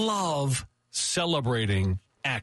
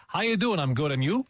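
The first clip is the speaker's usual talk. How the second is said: lightly imitated Michigan greeting, first question higher; a hint of Michigan small talk; Michigan back-and-forth; 4 semitones higher than usual. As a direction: toss the question up, then answer and bounce it back. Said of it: "how they ask you a question".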